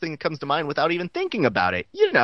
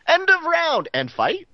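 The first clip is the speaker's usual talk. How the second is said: announcer call; 12 semitones higher, 5 dB louder, slower than usual. Pretend. Mock fight announcer call.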